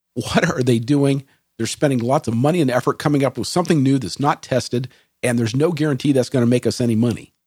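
ordinary delivery

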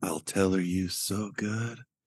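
slow, soft, close half-whisper. Voicing a character who pulls the listener in close: half-whispering in character. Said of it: "he pulls you in and whispers".

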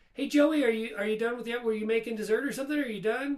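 mock very high, extra-polite, really nice tone. Retelling asking someone if done with the oven: imitating own really nice tone. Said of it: "I said it really nice".

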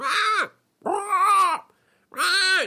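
very high, drawn-out, weird dolphin-like creature voice. Retelling a story, the speaker imitates the fish man: weird frog-like voice. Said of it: "he sounded like a weird pro- prog or pork".

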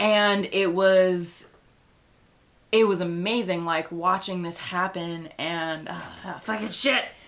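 slow, stretched, tearful, choking up, voice breaking. Describing a character's death scene from a show: starting to cry while talking. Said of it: "I did not mean to start crying right now".

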